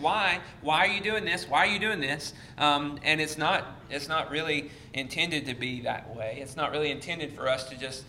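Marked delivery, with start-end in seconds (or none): 0.0-2.3 higher, mock-helpless questioning; helpless exasperation. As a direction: plead helplessly with people who won't listen. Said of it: "just helplessly sitting here saying".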